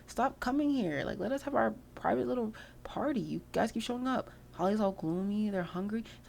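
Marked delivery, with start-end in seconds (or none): 0.1-4.3 higher, fed-up plea that drops to a whisper mid-line; annoyed baby voice. Pretend. Baby sim telling the guests to stop coming in, higher and fed up. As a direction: shoo the guests away like a grumpy toddler. Voicing the cold baby's complaint.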